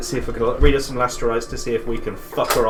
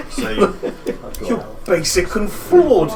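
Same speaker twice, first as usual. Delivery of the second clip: mocking insult; 5 semitones higher than usual. Bard casting vicious mockery insult.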